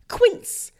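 slow, lightly put-on British "quince"; a hint of a rich Brit drawing out "quince"; wealthy British accent. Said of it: "a really wealthy British person".

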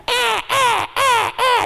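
high yelping ah ah; chase noises. Acted. Preacher imitating a movie chase, high and loud. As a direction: mimic a frantic chase.

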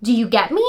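"get me" lilting up like an unsure question; upward inflection. Shown as a demonstration. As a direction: seek approval, lifting the end of "get me". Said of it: "when you communicate like this".

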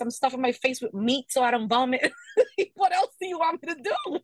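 laughing near tears, pitch climbing high; exasperated laugh cracking toward tears; laughing exasperation. Real, not acted. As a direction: throw up your hands, laughing.

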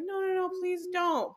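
high, polite mock refusal; people-pleaser refusal. To friends offering help, a polite high refusal. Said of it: "So I'm always like".

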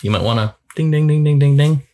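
high, loud ringing "ding, ding, ding"; playful alarm bell voice; warning chime voice. Pretend. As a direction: chime like a dashboard warning light. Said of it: "check engine light that's saying".

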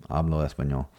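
Spanish with a gringo accent; American accent Spanish. Shown as a demonstration. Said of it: "with a gringo accent now".

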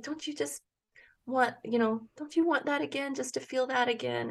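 hushed, tender retold appeal; gentle coaxing. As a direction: tenderly coax a worried child. Mother coaxing her scared son.

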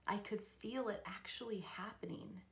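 breathy hushed whisper. Real, not acted. Telling listeners of her birth, in a whisper. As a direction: whisper it like a secret.

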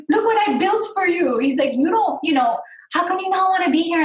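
imitating dad's Arab accent, high pitched; mock dad in an Arab accent, pleading. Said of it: "with his Arab accent".

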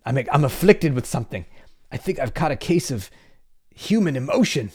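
playfully hammed-up alarm; teasing mock affliction. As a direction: tease him as if feelings were a disease. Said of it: "I'm teasing him like that".

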